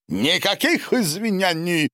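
high, sharp cry of refusal; shouted refusal. Acted. Silvio rejects any apology, crying it out high. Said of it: "выкрикнул Сильвио".

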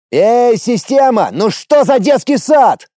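loud, slow shout to the system; shout at the sky. A narrator's reading. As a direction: yell up at the heavens. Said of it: "закричал я".

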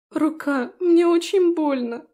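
high, loud, slow wail; tearful cry of pain. Acted. Trapped Felicia cries out to Daphne, tearful wail. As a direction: wail that it hurts.

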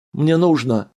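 high, loud, quavering plea; he begs the guard, voice trembling. A narrator's reading. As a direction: voice shaking as he insists. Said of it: "дрогнувшим голосом".

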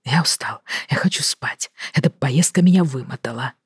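tired, unvoiced whisper; drained whispering complaint; exhausted whisper. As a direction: whisper like he can barely stay awake. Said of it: "страдальческим голосом, прошептал он".

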